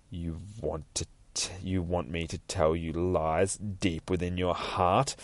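low, measured villain voice; lightly voiced sinister judge. Judge taunting a visitor about hidden lies, lightly sinister. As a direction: draw it out slowly, quietly knowing.

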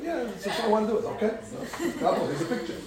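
laughing through the reply; a chuckling visitor; laughing congregant. Retold or imitated. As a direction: laugh it out, half-amused.

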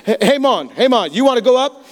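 light imitation of a Jamaican guide; casual Jamaican-accented call to tourists; hint of a Jamaican accent, friendly pitch. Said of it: "this Jamaican man came up to us and he said".

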